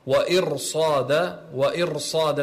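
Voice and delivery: وإرصاد with a thickened r; heavy Ra. Shown as a demonstration. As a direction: make the r in وإرصاد full and heavy. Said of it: "هنا أيضًا تفخم".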